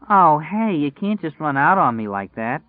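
put-on a girlfriend stopping him from leaving, high and indignant; protesting girlfriend.

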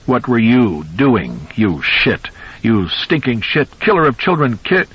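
slow, venomous insults; grieving father hurls insults at son-in-law; hectoring rant. Acted. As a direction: spit each insult slowly. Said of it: "His voice rose to a hectoring scream".

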